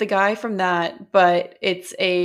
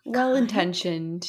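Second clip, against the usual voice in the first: weird way; slower than usual. Real, not acted. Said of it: "I said it in a weird way".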